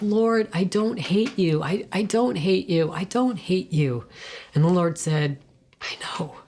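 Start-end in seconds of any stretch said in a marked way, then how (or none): 0.0-4.0 1 pleading. Retold or imitated. Pleading with God, retold. 5.8-6.4 soft voice of God; gentle whisper. Retold or imitated. God gently answering her cry, whispered.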